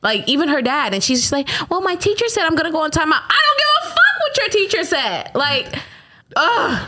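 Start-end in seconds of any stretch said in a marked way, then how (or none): 1.7-3.2 put-on fast, higher little-kid whine; quick childlike protest; imitating a child. Imitating her young daughter. 3.2-5.3 high-pitched exasperated retort; squealing fed-up mom; mock outburst. Mom's mock outburst at daughter.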